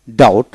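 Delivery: "ডাউট" with no b before the t; silent B. Shown as a demonstration. Teacher showing learners a silent letter, "ডাউট" without B. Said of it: "বি উচ্চারিত হবে না".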